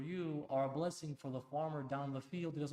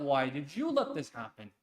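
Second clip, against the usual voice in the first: scornful echo; 7 dB louder than usual. Retold or imitated. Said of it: "No, no, no".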